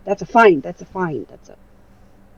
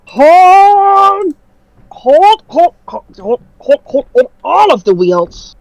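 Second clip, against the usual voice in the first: loud then fading hold; yelling hold; 7 semitones higher, 4 dB louder, much slower than usual. Acted. Robot yelling to halt the wheels, loud then fading. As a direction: shout hold and wind down.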